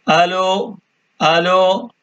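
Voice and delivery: আলু with no h and a drawn-out ending; variant pronunciation. Shown as a demonstration. Teacher demonstrating how the phone greeting is said, variant pronunciation. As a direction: say আলু as aa-loo, stretching the end. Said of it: "এভাবে".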